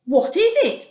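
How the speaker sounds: high, wondering question; puzzled naming. Acted. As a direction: say it like a name you can't figure out. Naming the strange food.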